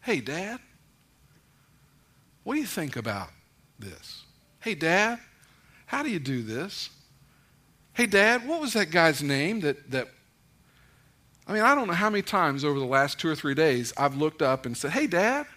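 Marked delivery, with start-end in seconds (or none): 0.0-10.1 tender. Retold or imitated. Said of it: "It's tender. It's affectionate". 14.9-15.5 intimate. Retold or imitated.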